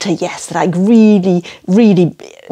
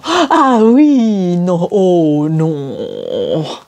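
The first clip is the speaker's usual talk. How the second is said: eager yes, dismayed no; much slower than usual. Shown as a demonstration. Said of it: "sound really French".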